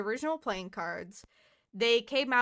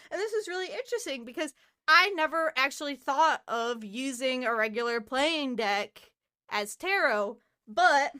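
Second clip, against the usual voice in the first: breathless, rushed talking; talking short of breath; 2 semitones higher than usual. Real, not acted. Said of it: "I'm out of breath".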